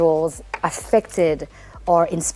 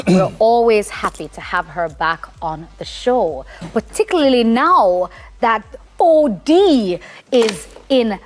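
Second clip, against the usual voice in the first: official voice; 3 semitones higher, slower than usual. Pretend. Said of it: "let me do my official voice".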